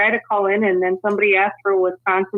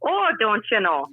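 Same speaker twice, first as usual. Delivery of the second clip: light Wisconsin lilt on "don't you know"; natural Midwestern Wisconsin accent. Shown as a demonstration. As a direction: say it like a Wisconsinite, rounded and easy. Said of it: "this is a Wisconsin accent".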